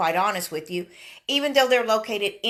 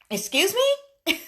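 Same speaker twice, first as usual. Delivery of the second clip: incredulous; 10 semitones higher, slower than usual. Retold or imitated. Retelling cable store guy.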